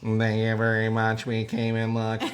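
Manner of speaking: monotone robot voice; flat, even robot reading. Pretend. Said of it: "All monotone".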